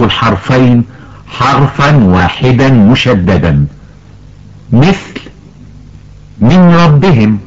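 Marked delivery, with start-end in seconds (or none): 6.4-7.4 من ربهم with the n merged into a doubled r, minrabbihim; الإدغام. Shown as a demonstration. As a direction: say من ربهم as one word, the n swallowed into a stressed doubled r. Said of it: "الصواب أن تنطق". (إدغام النون في الراء: مِرَّبِّهِم)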